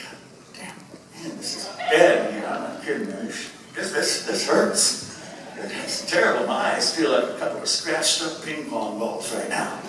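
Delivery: griping about smoky air, half-voiced; mock grumbling about stinging eyes; retold complaint. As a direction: imitate a mild, weary complaint. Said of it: "I needed to complain about that".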